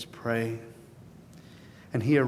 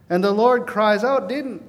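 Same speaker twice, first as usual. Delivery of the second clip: impassioned preaching; 8 semitones higher, 9 dB louder than usual. Acted. Preacher rising to a climax.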